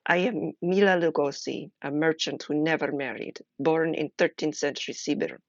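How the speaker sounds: put-on light practice Russian accent, barely there. Reading Mila's journal to the stream in a light Russian accent. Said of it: "with my Russian accent that I'm still practicing".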